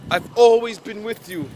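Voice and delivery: lightly voiced believers listing their good deeds; pleading believers. The false faithful pleading to the Lord on judgment day, lightly mocked. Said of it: "I think a quote".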